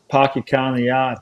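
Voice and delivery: dropped r Boston accent, lightly done; a quick Boston accent on request. Shown as a demonstration. Host asks the guest for his Boston accent. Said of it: "Let's hear that Boston accent".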